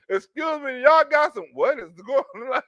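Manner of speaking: playing the friend who bursts in; mock nosy friend. Friend busting in on the bus, high nosy voice.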